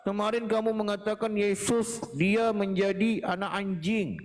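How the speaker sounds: mocking accuser voice. Pastor mimics Christian critics accusing him, in a mocking whine. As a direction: parody the accusers' complaint.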